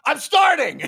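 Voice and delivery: very high, loud, laughing cry; mock eager shout. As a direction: blurt it out shrieking, half laughing. Acted character's eager announcement.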